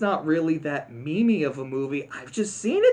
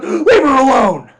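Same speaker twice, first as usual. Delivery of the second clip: loud defiant yell; heroic shout; 10 semitones higher, 15 dB louder than usual. Retold or imitated. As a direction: shout to protect her. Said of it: "Flick goes".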